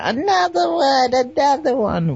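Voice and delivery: high, pushy trainer count; drill sergeant. Retold or imitated. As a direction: push them like a drill sergeant. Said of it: "Applying pressure".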